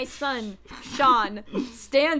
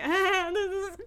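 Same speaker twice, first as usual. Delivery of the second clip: imitated giggly breaking of character, higher voice; breaking character laughing; 4 semitones higher than usual. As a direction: try to say it through suppressed laughter. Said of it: "even she's laughing".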